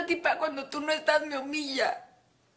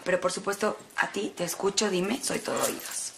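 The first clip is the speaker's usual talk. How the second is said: mock sweetness; 11 semitones lower, 3 dB quieter than usual. Mock politeness toward her father.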